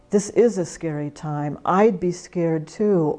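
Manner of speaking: validate their fear tenderly; gentle agreement. Shown as a demonstration. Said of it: "we can agree with them and say".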